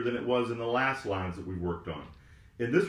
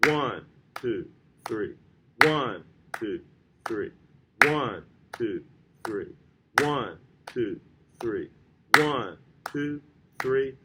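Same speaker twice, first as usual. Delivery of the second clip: steady count with One hit harder than two and three; accented counting; 2 semitones lower, 5 dB louder, slower than usual. Shown as a demonstration. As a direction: count in even beats, leaning on each One. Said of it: "let's clap and count together number sixty-nine".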